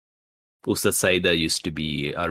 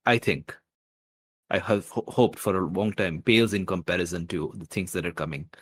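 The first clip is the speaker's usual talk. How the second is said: genuine feeling; 3 semitones higher than usual. Acted. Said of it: "with genuine feeling, he says".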